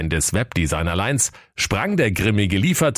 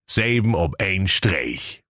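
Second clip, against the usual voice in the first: slow motto read; slower than usual. A narrator's reading. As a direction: narrator voice, "Selben ob ein Streich" slow and ceremonial. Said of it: "gestickt war".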